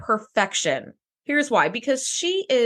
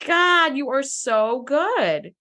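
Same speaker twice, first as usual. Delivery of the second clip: gushing admiration; 4 semitones higher, much slower than usual. Retold or imitated. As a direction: gush in awe, stretching the praise. Retold gushing reaction to Troy.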